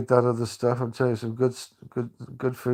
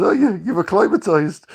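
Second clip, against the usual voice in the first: put-on Scottish accent; 8 semitones higher, 8 dB louder than usual. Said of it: "I actually took on the Scottish accent".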